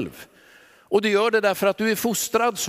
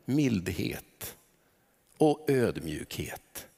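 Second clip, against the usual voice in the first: soft hush; 8 semitones lower, 7 dB quieter, much slower than usual. Real, not acted. Naming Jesus' lessons.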